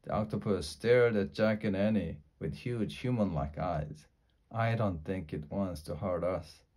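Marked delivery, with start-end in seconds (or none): 4.5-6.6 soft whisper. Acted. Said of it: "whispered Annie".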